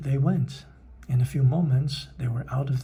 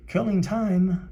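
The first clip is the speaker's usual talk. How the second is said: roaring dog; 7 semitones higher, slower than usual. A narrator's reading. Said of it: "roared the dog".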